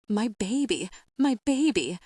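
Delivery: put-on a mother wailing for her child; mournful wail. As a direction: wail the last word out. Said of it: "The last word is just a wail".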